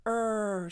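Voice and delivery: "er" held with a strong American R; drawn-out, fully pronounced "er"; rhotic R sound. Shown as a demonstration. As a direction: sustain the R in "er". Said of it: "not going to hear that".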